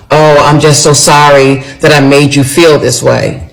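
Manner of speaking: imitating a half-hearted apology; uncompassionate apology. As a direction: retell his sorry with no real compassion. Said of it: "didn't really have any compassion in his voice".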